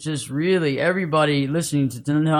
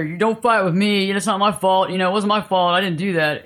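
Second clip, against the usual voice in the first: defensive protest; 4 semitones higher than usual. Retold or imitated. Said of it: "get in that mindset and say".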